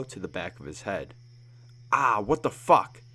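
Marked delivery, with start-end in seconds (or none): 1.9-3.0 sudden pained yelp, pitched up and loud; loud startled cry of pain; startled and hurt. Acted. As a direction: caught off guard by a blow to the head. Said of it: "startled and hurt".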